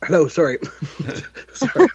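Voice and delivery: talking through a mouthful of food; words muffled round a bite; mouth full. Real, not acted. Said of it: "I'm eating".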